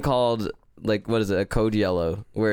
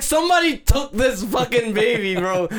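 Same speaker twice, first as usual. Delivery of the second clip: retold panic; 9 semitones higher than usual. Retold panic over missing baby.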